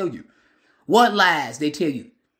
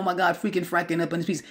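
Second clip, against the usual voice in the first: mocking fools; 5 dB quieter, faster than usual. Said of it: "fools right now up in this piece talking".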